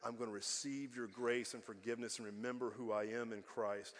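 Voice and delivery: low, softened confession; quietly contrite prayer; humble prayer. Acted. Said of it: "You humbly come before the Lord".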